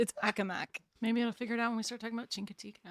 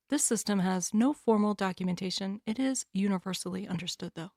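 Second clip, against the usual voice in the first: PSA read. Acted. Second mock PSA.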